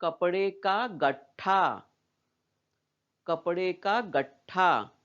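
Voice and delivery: slow, गट्ठा as 'gat-thaa' with a held ट; half consonant. Shown as a demonstration. Teacher reading for children, slow 'gat-thaa'. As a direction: read slowly, stopping on the half ट of गट्ठा. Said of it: "ट का उच्चारण आधा ही कर रहे हैं".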